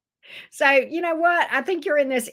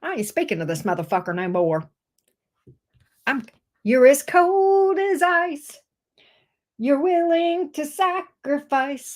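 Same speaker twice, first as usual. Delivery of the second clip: sassy Gemini quote; 4 semitones higher than usual. Acted. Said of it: "Gemini says".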